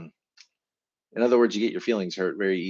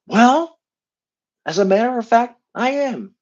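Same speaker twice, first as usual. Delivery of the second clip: pouty admission; 12 semitones higher, 6 dB louder than usual. Pretend. Upset two answers partner.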